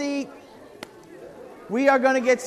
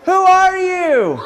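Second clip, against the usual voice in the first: mock surprise; 6 semitones higher, 4 dB louder, slower than usual. Skit, startled by intruder.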